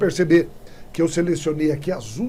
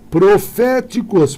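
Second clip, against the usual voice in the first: "proféticos" said slowly and louder, with "fé" stressed; slow stress check on "proféticos"; syllables drawn out; 4 semitones higher, 7 dB louder, much slower than usual. Shown as a demonstration. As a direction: stretch "proféticos" to hit "fé". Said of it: "proparoxítona".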